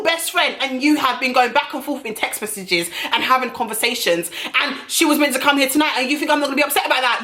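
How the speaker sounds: pitched high and speeding up, retelling the fight; mock furious rant. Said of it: "I was like".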